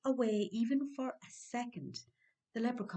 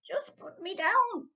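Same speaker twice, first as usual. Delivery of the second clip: higher, slow, begging; pleading; 13 semitones higher, 7 dB louder than usual. Acted. Leprechaun slowly begging Dan to put him down, higher. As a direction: beg slowly to be set down.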